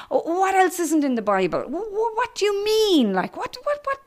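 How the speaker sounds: high, breathless stammering questions; a pack of girls pressing the new girl with questions; eager schoolgirls. Retold or imitated. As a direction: tumble over your own words, eager to know.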